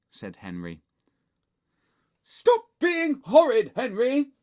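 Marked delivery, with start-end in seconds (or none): 2.2-4.3 slow, high, loud scolding; shout. A narrator's reading. Mum scolds Henry from afar, shouting. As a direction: shout each word as a warning. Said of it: "shouted Mum".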